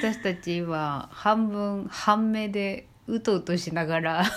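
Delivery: drowsy, half-asleep voice; nodding off. Real, not acted. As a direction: talk like you're dozing off.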